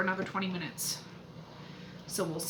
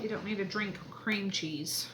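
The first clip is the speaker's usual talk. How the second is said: soft whispered aside; whispering; 6 dB quieter than usual. Real, not acted. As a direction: whisper it under your breath.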